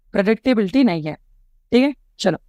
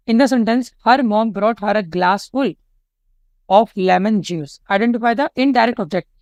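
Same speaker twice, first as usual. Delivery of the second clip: slow, deliberate reading of an exam question; teacher reading a quiz item slowly; reading question aloud; much slower than usual. Acted. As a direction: read the question out slowly for the class.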